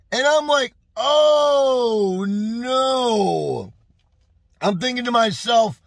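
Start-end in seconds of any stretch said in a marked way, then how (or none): 0.9-3.7 drawn-out mock cry of dismay; crying out oh no in comic horror; mock wail. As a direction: wail it like a hammed-up despair. Realizes toilet paper was fine.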